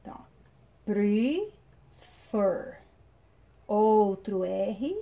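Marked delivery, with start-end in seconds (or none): 0.8-2.8 prefer drawn out as pre... FER; stress on last syllable. Shown as a demonstration. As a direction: split prefer slowly, landing on a falling FER. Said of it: "ela é mais forte na última sílaba". (prefer pausado, com FER tônico)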